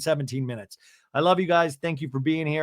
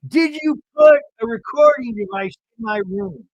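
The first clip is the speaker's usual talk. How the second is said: Meredith accusing; 7 semitones higher, 6 dB louder than usual. Retold or imitated. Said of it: "Meredith goes".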